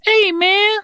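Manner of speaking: lazy high-pitched buddy impression; teasing a soft-spoken friend's voice; imitating Brad's soft voice. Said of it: "He, he talks like this".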